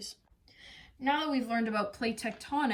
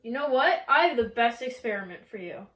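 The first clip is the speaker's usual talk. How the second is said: eager, louder announcement; excited teacher; 7 dB louder than usual. Acted. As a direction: pitch it like a treat. Teacher excited about experiment.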